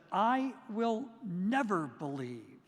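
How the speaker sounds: slow, defiant vow; stubborn refusal. Retold or imitated. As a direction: dig in your heels on every word. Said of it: "he said".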